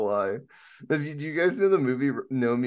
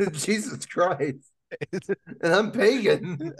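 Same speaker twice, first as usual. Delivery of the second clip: laughing; 5 semitones higher, slower than usual. Real, not acted. Laughing exasperated exclamation.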